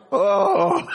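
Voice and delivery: a crying gasp, put on for laughs; mock overwhelmed cry. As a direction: play the overwhelmed little man, crying out. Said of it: "My response is more like".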